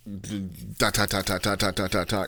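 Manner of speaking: quick staccato da-da-da; imitated rapid-fire flurry. Reviewer mimicking Dragon Ball-esque martial arts, rapid staccato noise. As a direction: rattle off even, rapid syllables.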